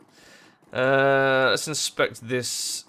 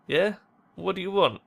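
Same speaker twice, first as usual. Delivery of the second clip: higher-pitched wary challenge; guarded; 6 semitones higher than usual. Acted. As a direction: question a stranger guardedly, pitched up. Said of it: "her expression guarded".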